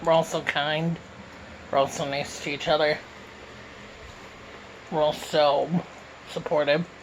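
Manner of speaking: talking while eating; words round a bite of food; mouth full. Real, not acted. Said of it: "this turned into a mukbang Q and A".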